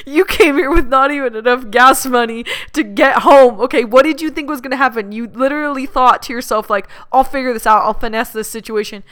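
mock scolding; exasperated inner voice. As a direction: scoff at him in your head. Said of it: "thinking to myself".

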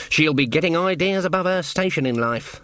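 prim village witch; stern old witch Granny. Acted. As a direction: sniff at the queen's airs. Granny Weatherwax voiced.

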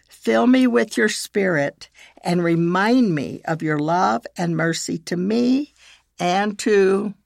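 measured, with long pauses between phrases; slow prayer reading. Shown as a demonstration. Leading listeners in a prayer of forgiveness, slowly. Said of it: "I will read it slowly".

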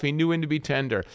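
understated second half of a contrast; tender. Shown as a demonstration. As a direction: relax into a mild tenderness.

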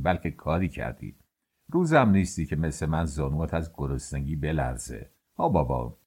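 put-on low, amused older master ribbing his worker.

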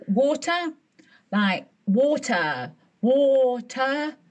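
WATER drawn out slowly, sounded out for a foreigner; repeating for understanding. Retold or imitated. British diner spelling it out to a confused waitress, slow and insistent. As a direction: say WATER with long, careful syllables.

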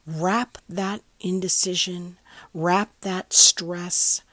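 measured meditation affirmations in spaced phrases; unhurried, incantatory meditation delivery; guided meditation. Acted. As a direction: guide listeners with steady, deliberate assurance. Here is your meditation.

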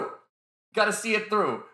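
slow and insistent. Shown as a demonstration. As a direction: drag it out to make the point. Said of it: "I'm really loud and obnoxious".

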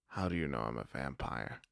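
hushed surprised vampire; quiet, startled question. Acted. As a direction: ask it low, caught off guard. Startled Paige asks quietly.

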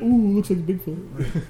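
drawn-out fake awe over a grainy photo; mock spooky narrator. Mocking his friend's future ghost footage, slow and high. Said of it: "It's gonna be like".

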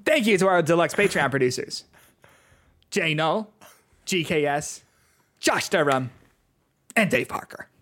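lightly put-on stand-up announcer delivery; John Mulaney. Podcaster thanks the Patreon producers, light comedian impression. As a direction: read the thanks like a comedian onstage. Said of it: "I'm doing the John Mulaney voice".

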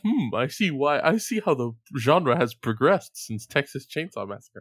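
pompous little critic voice; lightly voiced know-it-all kid; mock film critic. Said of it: "at seven you were like".

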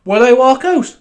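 high, loud announcer call; loud announcing. Pretend. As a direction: call it out to a crowd. Mock announcer intro line.

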